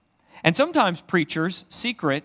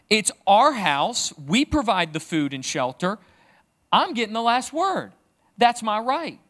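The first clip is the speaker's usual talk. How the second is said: a touch louder and higher, hammed-up outrage; mock indignant dad; 6 semitones higher, 4 dB louder than usual. Dad claiming his right over his children, mock indignant. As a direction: insist you get the last word, half-joking. Acting himself arguing with kids.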